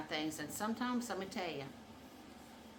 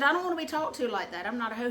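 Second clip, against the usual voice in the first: higher, louder mock telling-off; indignant objection; 4 semitones higher, 7 dB louder, faster than usual. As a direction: protest as if scolding him. Acted telling-off.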